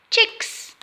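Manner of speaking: very high, squeaky chick word; high peeping chick voice for kids; tiny chick voice. Acted. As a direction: say it like a little chick.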